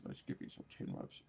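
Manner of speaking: hushed whisper promising chin rubs; whispered to the cat. Real, not acted.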